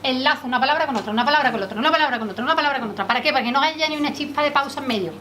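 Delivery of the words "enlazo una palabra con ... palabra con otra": rushed linking. Shown as a demonstration. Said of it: "¿sabes qué hago?".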